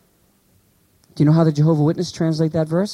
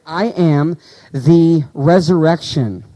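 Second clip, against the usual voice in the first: "I am the resurrection" drawn out word by word; slow reading for emphasis; slow scripture quote; much slower than usual. Shown as a demonstration. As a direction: let each word of the verse land slowly.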